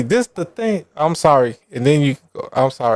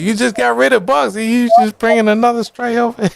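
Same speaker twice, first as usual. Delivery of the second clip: scolding mom voice; 7 semitones higher than usual. Retold or imitated.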